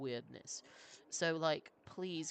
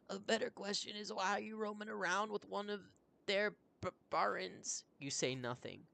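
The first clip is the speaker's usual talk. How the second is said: much higher, pleading frightened voice; high anxious villager; 6 semitones higher than usual. Acted. Villager begging the traveler not to leave them, high panicked plea. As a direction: beg not to be left behind.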